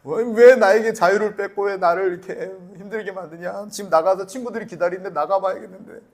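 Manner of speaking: whining complaint, lightly imitating a child; mock child protest. Small son begs father to let him out, mock protest. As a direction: protest like a kid kept indoors.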